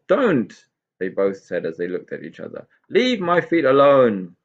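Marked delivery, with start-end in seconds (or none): 0.1-0.5 high, louder warning; sharp pixie snap. Acted. Both pixies snap together. 2.9-4.4 higher, louder and slow cross pixie. Acted. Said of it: "Tigger sat up crossly".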